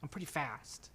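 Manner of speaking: put-on boastful little kid; young boy. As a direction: show off as a small boy. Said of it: "the little kid".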